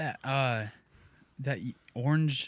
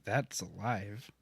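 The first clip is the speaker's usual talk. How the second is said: alien voice; 5 semitones lower, 9 dB quieter, slower than usual. Pretend.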